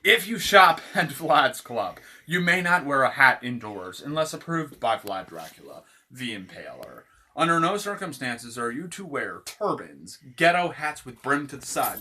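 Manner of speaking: formal read-out of comic store rules; mock store rules. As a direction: announce the rules with mock authority.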